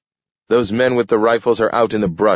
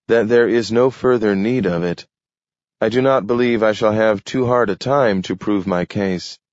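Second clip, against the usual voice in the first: slightly higher, steady formal declaration; lightly voiced Adams, formal; 4 semitones higher than usual. Adams warns the mayor of his petition, formal. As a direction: lay out the legal threat evenly. Adams states legal case.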